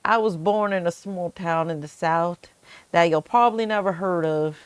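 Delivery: a light Southern accent, lightly voiced; a mild, understated Southern accent. Shown as a demonstration. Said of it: "I could do that in a Southern accent".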